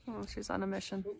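ordinary talk

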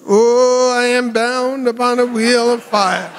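high squeaky mocking voice. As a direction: squeak it out to mock him. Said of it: "to mock me in a squeaky voice".

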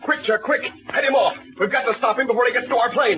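calling out urgently to his partner; urgent call to head him off; shouting to Chuck during the chase. Acted. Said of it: "Captain Midnight shouts".

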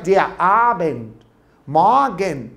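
slow, deliberate German, دي أبند ماجن drawn out word by word; modelling pronunciation. Retold or imitated. Teacher imitates his pronunciation video, slow modelling delivery. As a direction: sound out أبند and ماجن slowly for the class to repeat. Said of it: "يقول لك".

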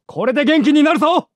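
loud call while healing; shouted take. Acted. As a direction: shout it across the field. Same line, shouted take.

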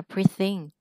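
"breathe in" with TH voiced, silent final e; teacher demonstrating "breathe in" joined up; linked voiced TH. Shown as a demonstration. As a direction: link "breathe" into "in" as one word. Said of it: "T H này lúc này thành the rồi".

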